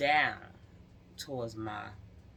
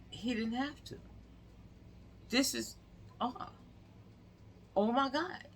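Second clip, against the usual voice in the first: much higher, voice climbing in shock; a cop horrified by what she hears; outraged officer; 11 semitones higher than usual. Retold or imitated. Officer reacting to the story, high and appalled.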